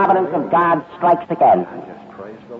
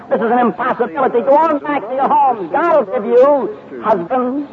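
Naomi pleading, climbing higher as she goes; a mother-in-law urging the girls to turn back; 4 semitones higher than usual. Acted. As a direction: beg them to go home, rising and slowing at the end.

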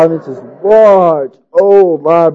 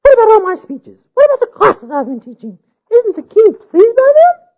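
high, loud demanding bride; 5 dB louder than usual. A narrator's reading.

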